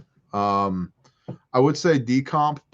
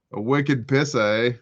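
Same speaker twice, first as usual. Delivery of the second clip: put-on Boston accent. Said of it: "she starts talking like this".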